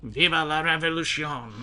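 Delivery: put-on deliberately awful French accent, lightly done; bad French accent. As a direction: mangle it in a mock French accent on purpose. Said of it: "I hear you try to do a French accent".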